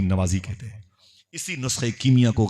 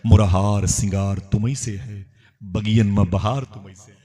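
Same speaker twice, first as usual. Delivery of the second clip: devotional verse. Acted. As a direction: draw out the lines as sacred poetry.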